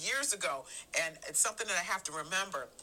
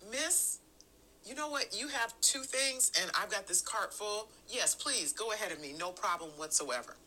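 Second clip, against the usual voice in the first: polite public voice; 2 semitones higher than usual. Acted. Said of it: "that's how we sound out in public".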